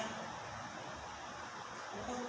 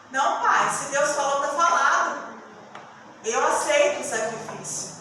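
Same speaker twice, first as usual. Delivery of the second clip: faithful Isaac; 2 semitones higher, 6 dB louder than usual. Acted. Preacher voicing Isaac accepting the sacrifice, earnest. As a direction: say it with a boy's firm faith. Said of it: "olha a fé desse garoto".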